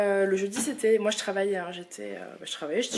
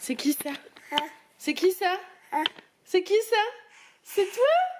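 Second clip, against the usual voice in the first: from slightly higher up to very high coo; 9 semitones higher than usual. Real, not acted. Mother showing her son his reflection, rising baby talk. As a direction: ask who that is, each time higher.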